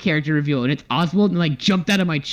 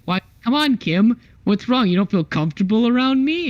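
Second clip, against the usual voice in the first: mock flirting lady; 7 semitones higher than usual. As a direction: tease him like a pushy flirt, half in jest. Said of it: "she's like".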